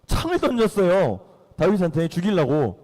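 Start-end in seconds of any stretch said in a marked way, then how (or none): none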